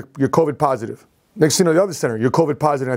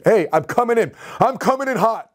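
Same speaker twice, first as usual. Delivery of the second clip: higher-pitched urgent heads-up; urgent warning; 5 semitones higher than usual. Retold or imitated. Patient phoning the ER center, acted urgent warning. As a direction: warn them you're on the way, retold.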